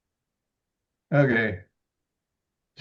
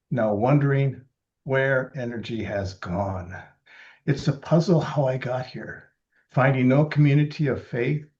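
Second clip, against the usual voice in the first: poetry reading. Acted. Reads own poem.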